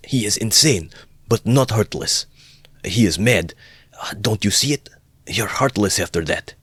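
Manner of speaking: high, forceful stage whisper; urgent whisper. A narrator's reading. Friend defending the brother to his sister, whispering urgently. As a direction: whisper it insistently into her ear. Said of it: "Razumikin whispered in her ear".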